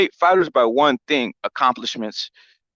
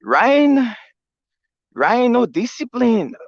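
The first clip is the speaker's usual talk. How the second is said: lightly imitated Canelo, pitch up at times; mock Canelo voice; 3 semitones higher than usual. Canelo calling out Ryan, lightly imitated scolding. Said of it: "Canelo said".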